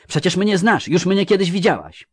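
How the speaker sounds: very high, insistent cry; Nimue. A narrator's reading. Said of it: "krzyknęła Nimue".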